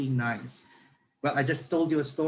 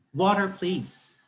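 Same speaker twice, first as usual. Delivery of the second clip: put-on slow, higher, polished English-accented reply; good English accent; 4 semitones higher, much slower than usual. Forgetful passenger answers the stewardess, careful good English accent. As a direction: show off a fluent English accent. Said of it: "with the accent".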